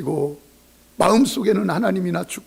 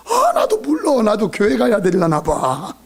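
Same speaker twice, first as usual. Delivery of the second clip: mock helpless lament; 2 semitones higher than usual. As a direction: play a baffled failure, hammed-up. Acted unbeliever's helpless lament.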